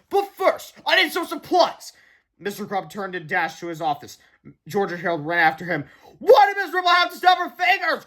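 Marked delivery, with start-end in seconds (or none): 0.1-1.9 high, loud silly superhero; heroic proclamation. A narrator's reading. 6.2-8.0 high, loud wail; crying out. A narrator's reading. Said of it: "cried Harold".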